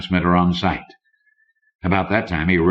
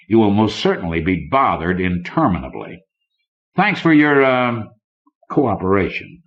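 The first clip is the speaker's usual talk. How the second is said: a lightly raised, smirking banker voice; a hint of a sneering tycoon; smug banker; 3 semitones higher than usual. Banker Conant smugly warns Kidder before leaving, lightly voiced smirk. Conant's mocking parting threats.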